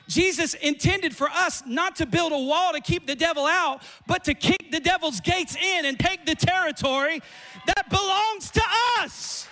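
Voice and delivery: high, loud, slow shouted preaching; preaching at full force. Acted. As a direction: build to a thundering proclamation.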